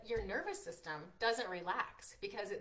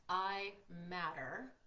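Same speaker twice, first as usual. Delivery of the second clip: slow affirmation; much slower than usual. Shown as a demonstration. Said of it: "type in the comments".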